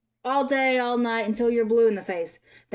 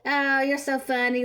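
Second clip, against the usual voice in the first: mock fan gush; 4 semitones higher than usual. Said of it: "like, a".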